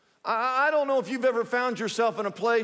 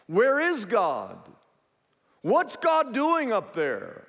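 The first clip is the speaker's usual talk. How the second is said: mildly pleading, higher-pitched questions; anguished questioning; 5 semitones higher than usual. Acted. Preacher voices sufferers asking where God is, anguished questioning. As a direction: voice a doubter's plea, pitch climbing.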